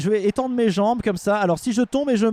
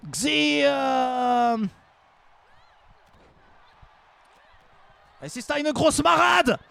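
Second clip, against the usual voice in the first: broken German commentary, half joking; German-accented play-by-play; mock German commentary; slower than usual. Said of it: "Maintenant en allemand".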